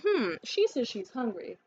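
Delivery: slow, dopey mock voice of the guy; imitating a clueless man, slowly; mock dim man. Mocking the date who ignores her hunger, slow dopey voice. Mocking the man's dull thinking.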